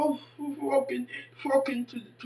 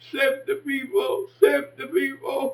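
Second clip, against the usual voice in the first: mock wail; 2 semitones higher, 4 dB louder than usual. Mock dramatic lament, calling out.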